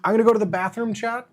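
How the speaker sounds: upbeat announcement. Shown as a demonstration. Streamer loudly announces a bathroom break to chat, upbeat. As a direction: announce it brightly to the whole chat. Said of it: "Is that acceptable?".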